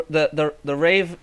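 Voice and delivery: ordinary talk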